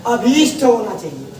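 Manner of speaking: अभीष्ट with a long ई; correct pronunciation. Shown as a demonstration. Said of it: "अभिष्ट ... गड़बड़ हो गया". (अभीष्ट, लंबी ई के साथ)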